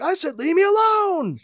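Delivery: hammed-up high-pitched refusal; insistent Lara. Lara refusing her husband again in a mock shriek. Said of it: "she's like".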